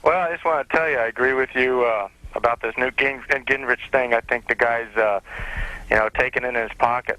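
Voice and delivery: caller on a phone line; thin telephone line sound; over the phone. Real, not acted. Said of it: "I'm talking to you on the phone".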